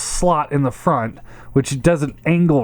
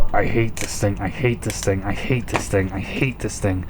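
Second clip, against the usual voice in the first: repeated whine, growing softer; whiny; 5 semitones lower, 4 dB quieter than usual. Real, not acted. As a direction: whine it, fading away. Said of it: "I'm sounding like a little whiny bitch".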